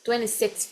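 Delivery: "twenty-six" closed with an f-like puff of TH; TH ending. Shown as a demonstration. Teacher repeats the ordinal number, TH ending. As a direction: add a breath of TH after "twenty-six". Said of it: "esse T H no final".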